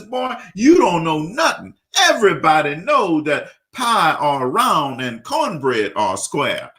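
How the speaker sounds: lightly voiced Cajun grandpa setting him straight; grandfather's punchline. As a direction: grandpa correcting the college boy, slow and scolding.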